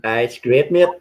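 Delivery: put-on Northern Irish lilt; Northern Irish accent. Answering a mate's praise, Northern Irish accent. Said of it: "That Northern Irish accent is wicked".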